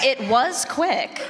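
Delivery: slow words breaking into a high laugh. Real, not acted. Panelist defending the Audible rep, laughing. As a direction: defend them, then laugh.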